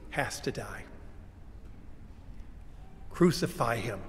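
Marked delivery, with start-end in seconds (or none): 3.1-4.0 acted cry of a mob, second one louder; condemning chant, punched on the first syllable; crowd's cry. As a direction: cry out the demand, building in force. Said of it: "who cried these words".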